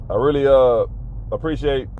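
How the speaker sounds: flat robot-like monotone. Real, not acted. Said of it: "sorry I'm talking like a robot".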